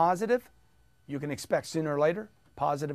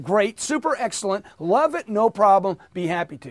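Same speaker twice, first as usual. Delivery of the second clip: rapid, higher positives; quick and upbeat; 3 semitones higher, 5 dB louder than usual. Shown as a demonstration. Coach demonstrating the quick version, upbeat. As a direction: rattle them off fast and cheerful. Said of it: "Can you do it that quick?".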